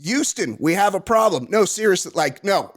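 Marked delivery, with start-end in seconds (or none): 0.0-1.5 famous astronaut line. Retold or imitated. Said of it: "I'm saying it like the other guy said it".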